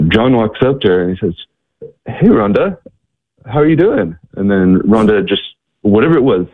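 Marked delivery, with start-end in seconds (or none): 2.1-4.2 retold friendly hello, pitched high; familiar loving greeting. John greets Rhonda on the street, familiar and loving. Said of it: "familiar, loving voice".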